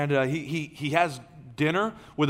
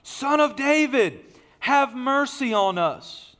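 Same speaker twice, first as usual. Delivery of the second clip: higher, slower cry of the blind men; mild read shout; 7 semitones higher, 4 dB louder, slower than usual. A narrator's reading. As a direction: read it as a lightly voiced plea for mercy.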